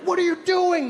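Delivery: high-pitched mock outrage; mock furious. Imitating Americans furious about the bill, mock outrage. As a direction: protest in indignant high tones. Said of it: "People were furious".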